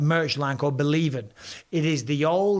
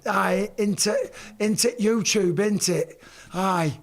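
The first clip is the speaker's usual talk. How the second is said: Yorkshire accent; 3 semitones higher than usual. Shown as a demonstration. Showing stream viewers how Yorkshire people talk, Yorkshire accent. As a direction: do a mock Yorkshire lad. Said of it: "they actually talk like this".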